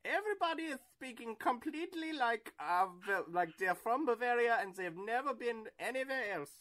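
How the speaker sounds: high, loud eager rush; a hint of giddy excitement; excited gush. Host dreaming about a German sausage market, eager. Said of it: "just be like".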